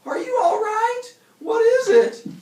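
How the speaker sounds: high, loud worried call. Acted. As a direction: shout down into the dark. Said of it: "she called".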